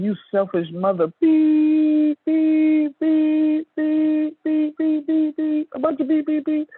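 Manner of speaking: high, loud censored rant, beep after beep; mock furious yelling. Comic voicing the angry friend cursing him out in high loud beeps. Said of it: "She said, and I quote".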